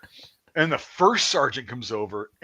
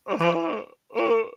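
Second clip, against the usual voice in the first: high-pitched mock sob; small squeaky cries of distress; acted-out whimpering; helpless whimper; 12 semitones higher than usual. Imitates his own helpless whimpering.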